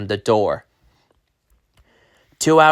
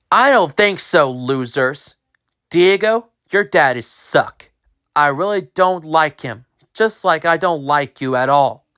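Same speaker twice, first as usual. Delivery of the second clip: bully taunt; 3 semitones higher than usual. Acted.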